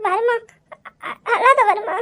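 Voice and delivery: halting, choked-up plea; tearful consoling. Acted. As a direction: console him while close to tears. Crying wife consoles her husband. (தழுதழுத்த ஆறுதல்)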